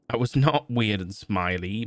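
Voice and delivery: slow indignant protest; a slow, mildly indignant denial. Acted. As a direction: protest each word slowly. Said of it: "Matt protested".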